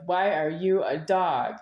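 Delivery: slow, tense mock-angry question. Slow mock-angry question snapped at his dog Rocky. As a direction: bark it slowly at the dog, tense. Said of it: "And I said it angry".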